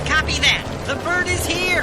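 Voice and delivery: high, loud shouted orders; shouting orders over battle. Acted. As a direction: yell over the roar of a chopper. Soldier calls over the chopper.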